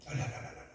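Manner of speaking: soft unvoiced babble of 랄랄랄; speaking in tongues. 방언이 터진 성도를 흉내 내는 조용한 랄랄랄 소리. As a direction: quietly mimic tongues, 랄랄랄랄랄랄. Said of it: "방언이 터지기 시작한 거예요".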